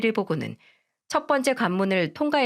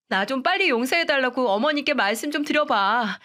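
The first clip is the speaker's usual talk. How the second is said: higher, whiny disgusted voice; complaining young wife; 6 semitones higher than usual. Acted. Wife phoning her husband from the nursing home, higher whining plea. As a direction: complain and beg, fed up.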